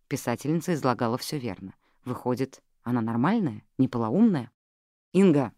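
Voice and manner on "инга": ordinary delivery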